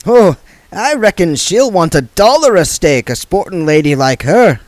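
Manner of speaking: mock complaint to a mark; gambler's voice. Third man voiced.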